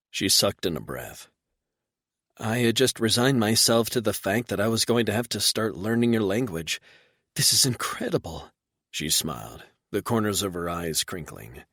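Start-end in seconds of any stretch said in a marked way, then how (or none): 2.4-8.5 a touch higher, amazed and eager; lightly voiced amazed woman. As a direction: Reba discovering they can talk. Reba, amazed.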